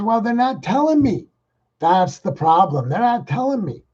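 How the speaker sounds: high whiny mock governor. Mocking the governor's excuse on TV, high and whiny. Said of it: "And he says".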